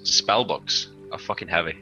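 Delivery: ordinary talk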